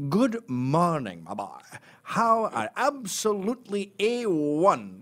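slow, lightly plummy Sean Connery voice; a hint of a posh Scot. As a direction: do a toff Sean Connery with a monocle. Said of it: "like Sean Connery with a monocle".

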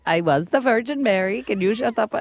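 put-on botched Colombian accent, sliding into Indian; Sofia Vergara. Radio host copying a clip, failed accent. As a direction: attempt a Latin accent that wanders Indian. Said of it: "and now I'm Indian again".

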